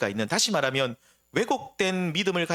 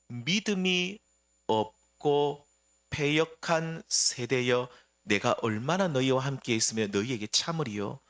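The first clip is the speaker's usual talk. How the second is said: slow, drawn-out rebuke, held back rather than shouted; grieved anger; 4 semitones lower than usual. Acted. Jesus rebuking the faithless generation, slow and restrained. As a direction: drag each word out as if holding back anger. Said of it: "굉장히 예수님이 분노하시면서".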